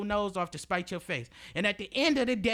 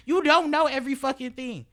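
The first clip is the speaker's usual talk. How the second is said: louder, higher exasperated snap; frustrated outburst; 7 semitones higher, 7 dB louder than usual. Real, not acted. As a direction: let the frustration burst out. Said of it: "frustrated outburst".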